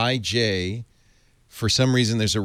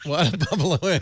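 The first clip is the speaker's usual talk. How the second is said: put-on Boston accent; 6 semitones higher than usual. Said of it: "I gotta do that one".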